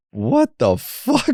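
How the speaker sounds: slow, drawn-out acted astonishment; stunned disbelief. Recalling the integration afterwards, slowly stunned. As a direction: stretch each word, dumbfounded.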